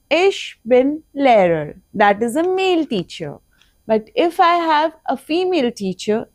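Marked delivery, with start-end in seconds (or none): 0.1-1.8 slow repeat with stress on ich. Shown as a demonstration. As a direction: echo it for the class.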